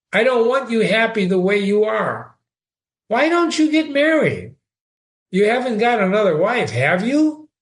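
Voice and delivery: a hint of a distraught friend; Ferguson, upset. A narrator's reading. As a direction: plead with them anxiously.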